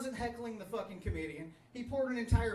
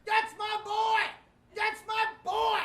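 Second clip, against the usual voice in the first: high joyful yell; joyful shout; 13 semitones higher, 6 dB louder, slower than usual. Retold or imitated. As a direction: cheer it like a proud dad. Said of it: "My dad's jumping for joy like".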